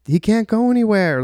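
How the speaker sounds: high-pitched mock yell; retold yell from a passing car; imitated yelling. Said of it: "yelling at this guy behind me".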